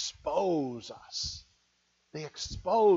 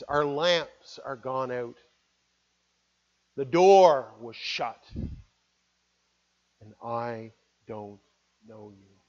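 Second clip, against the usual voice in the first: sad, dark words; 6 semitones lower than usual. Acted. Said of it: "sad words, dark words".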